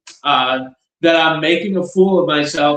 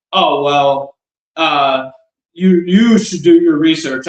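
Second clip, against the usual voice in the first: mock condescending brush-off. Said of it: "All condescending".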